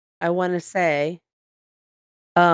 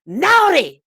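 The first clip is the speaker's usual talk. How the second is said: put-on higher and louder, a gleeful accented verdict; Tally's naughty verdict; 10 semitones higher, 6 dB louder than usual. The elf reads his list to a guest, gleeful accented verdict. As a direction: pronounce the guest naughty with glee in the elf's accent. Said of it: "and then he goes".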